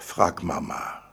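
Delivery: sighed out, voiceless and defeated; weary sigh. Acted. Father giving in to his daughter, sighing voicelessly. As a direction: give up with a sigh. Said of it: "seufzte ich".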